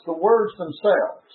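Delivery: "the words themselves" set out with deliberate stress; emphatic stress on "words themselves". Real, not acted. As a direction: underline "words themselves" as the key point. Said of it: "I want to emphasize".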